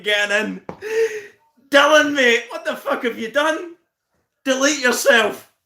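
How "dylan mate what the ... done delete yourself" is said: mock outrage. Real, not acted. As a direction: act shocked at the viewer.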